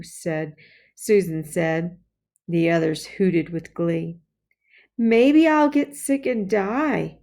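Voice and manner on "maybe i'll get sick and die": warning. Acted. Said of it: "John warned".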